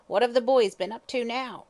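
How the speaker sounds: put-on old woman harshly questions the detective; harsh hag. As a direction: bark the question suspiciously. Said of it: "she asked harshly".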